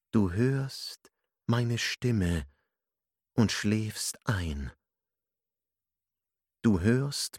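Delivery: slow, drawn-out hypnotist's voice; deep magnetic voice. A narrator's reading. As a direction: lull him under, very slowly. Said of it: "Sie wurde tiefer, magnetischer, anziehender".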